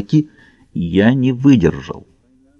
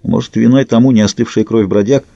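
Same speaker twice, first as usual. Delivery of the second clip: ordinary delivery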